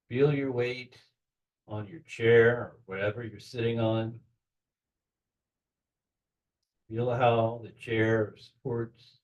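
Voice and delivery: unhurried grounding meditation, long pauses between phrases; guided relaxation. Acted. Leader helping listeners sink into their bodies, guided relaxation. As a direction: gently guide them to settle, leaving room to breathe.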